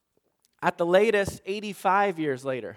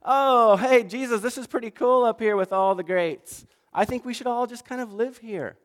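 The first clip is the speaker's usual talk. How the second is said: 1 excited Peter; 4 semitones higher than usual. Retold or imitated. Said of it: "He didn't know what he was saying".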